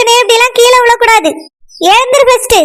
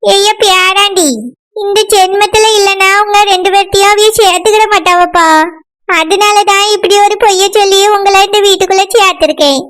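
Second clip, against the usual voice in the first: grandmother voice; 3 semitones lower than usual. Acted. Grandmother explains her lie.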